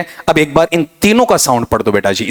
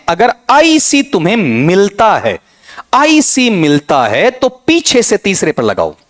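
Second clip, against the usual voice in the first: mocking the rulebook; 6 semitones higher, slower than usual. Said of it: "नियमावली लोग पढ़ाते हैं".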